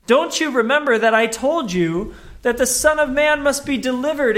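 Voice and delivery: mildly exasperated teacher; exasperated Jesus. Acted. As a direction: scold them in disbelief. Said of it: "what he heard made him go".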